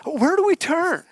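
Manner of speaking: high, pushed mock yell; mock media yell. Speaker mocks the media telling everyone to panic, mock yell. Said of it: "when the media yells".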